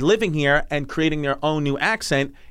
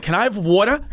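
put-on higher-pitched Staten Island kid; Staten Island accent; 5 semitones higher than usual. Host imitating a Staten Island kid, Staten Island accent. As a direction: ask it in a New York City accent. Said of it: "how a kid from Staten Island".

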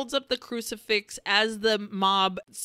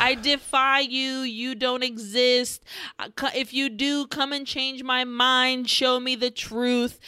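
mock defiant cry, higher pitched; defiant retold scream; 3 semitones higher than usual. Sinner challenging gods and devils in a defiant mock scream. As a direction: half-shout a dramatic challenge to heaven. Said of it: "he starts screaming at the gods and the devils".

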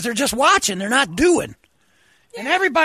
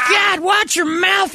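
scolding shout; 5 semitones higher, slower than usual. Real, not acted. Scolding caller for swearing.

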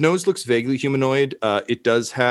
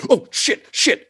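high, hurried mock cursing; caught-out stranger; 4 dB louder, slower than usual. Flustered guy scrambling for his chair, high muttered panic. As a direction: curse in a higher, panicky voice. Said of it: "uh, you just hear".

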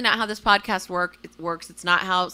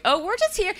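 mock innocent; 12 semitones higher than usual. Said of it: "We were just like".

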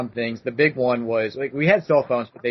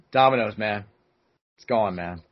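mock heartbroken; 4 semitones lower than usual. Friends replaying the voicemail, mock sad. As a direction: sigh it out like a lost love. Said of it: "acting like he had broken the heart".

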